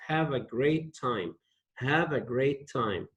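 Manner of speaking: "Have a great time" said gently, easing off at the end; modelled wish. Shown as a demonstration. Teacher to class, modelling the wish gently. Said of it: "And say it like this".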